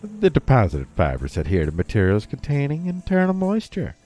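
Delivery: put-on southern accent, swooping pitch; lilting mock southern accent. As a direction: keep up the playful southern accent. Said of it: "doing a southern accent for this story".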